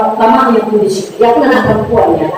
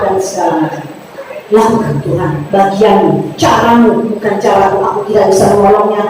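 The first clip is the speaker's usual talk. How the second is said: earnest prayer. Acted. Pastor voices his prayer.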